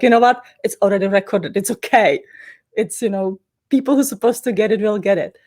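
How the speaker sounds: breezy dismissive self-quote. Retold or imitated. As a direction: shrug it off, it's fine. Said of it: "I was like".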